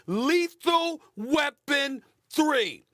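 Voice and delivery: drawn out, announcing a nickname; slow announcement. Acted. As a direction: unveil the name word by word. Repeating his hyped nickname.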